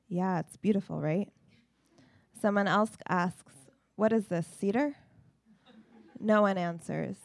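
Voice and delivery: clear, projected recital, line by line; narrative poem reading. Acted. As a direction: tell it as a poem, quotes lightly voiced. Reads narrative poem aloud.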